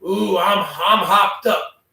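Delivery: wired on energy drinks; buzzing from caffeine; too much caffeine. Real, not acted. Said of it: "two Red Bulls inside of me".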